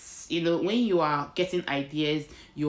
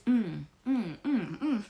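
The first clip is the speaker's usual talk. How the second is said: awkward laugh; 7 semitones higher, slower than usual. Real, not acted. Awkward about her accent.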